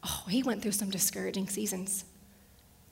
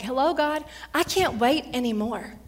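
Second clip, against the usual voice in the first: loud, pleading call to God; mock desperate cry; 3 semitones higher, 5 dB louder than usual. Worshipper calling out impatiently to God, loud plea. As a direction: cry out that you can't wait.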